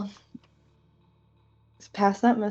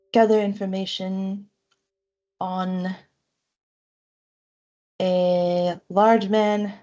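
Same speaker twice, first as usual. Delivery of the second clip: slow dictation; slower than usual. Acted. Slow dictated sending-stone message.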